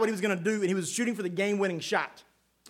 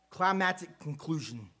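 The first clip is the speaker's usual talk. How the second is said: careful slow retry; 3 semitones lower, 7 dB quieter than usual. Real, not acted. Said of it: "I shouldn't have chose a tongue twister there".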